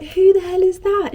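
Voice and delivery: high, loud, baffled retort; mock incredulous. Friend retorting about the wrong guy down the table, mock incredulous. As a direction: imitate a friend's exasperated disbelief.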